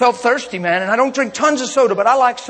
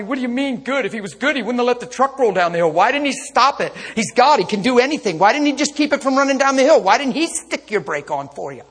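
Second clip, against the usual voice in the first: complaining Christian; 3 semitones higher than usual. Retold or imitated. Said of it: "a lot of Christians have the mentality".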